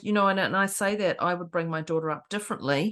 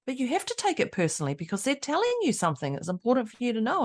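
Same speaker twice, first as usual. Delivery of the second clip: higher, earnest teen imitation; a hint of a girl insisting; lightly voiced teenage girl; 5 semitones higher than usual. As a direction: plead like a sixteen-year-old, lightly. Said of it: "lovely little sixteen-year-old girl was just like".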